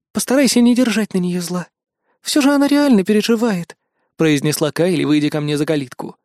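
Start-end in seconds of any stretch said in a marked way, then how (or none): 0.1-3.8 higher, gentler female-character voice; smooth things over after a quarrel; conciliatory. A narrator's reading. Kayli soothes him after the quarrel.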